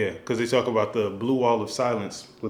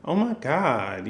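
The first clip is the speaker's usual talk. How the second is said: put-on girly voice; 4 semitones higher, slower than usual. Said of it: "you expect her to be like".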